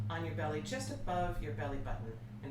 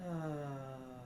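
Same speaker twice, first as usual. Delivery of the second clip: sighed ah. Shown as a demonstration. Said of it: "Sigh it out".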